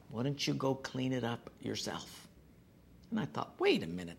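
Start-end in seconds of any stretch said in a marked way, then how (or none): 0.1-2.3 soft, much quieter inner prompting; quiet voice of God. Retold or imitated. God nudging the grumbling pastor, softly and quietly. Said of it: "God just quietly say". 3.6-4.2 jumps much higher, caught off guard; a pitch leap of indignant surprise; mock startled protest. Pastor objecting to God's request, high and startled.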